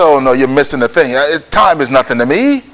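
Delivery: low-pitched voice of God; God's unbothered answer. Acted. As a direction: drop low and dismiss the worry. Voicing God answering the doubters.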